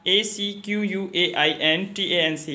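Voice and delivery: slow letter-by-letter spelling; measured dictation of single letters. Shown as a demonstration. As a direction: read each letter out separately. Teacher spells the word out.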